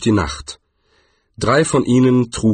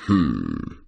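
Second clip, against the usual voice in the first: tiefes Brummen; 10 semitones lower, 4 dB quieter than usual. Acted. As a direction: kurz und tief brummen. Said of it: "brummte Quarz". (tiefes Trollbrummen)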